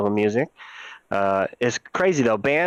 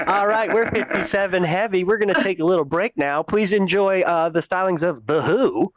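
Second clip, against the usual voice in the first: mock band announcer; 6 semitones higher than usual. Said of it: "It's like".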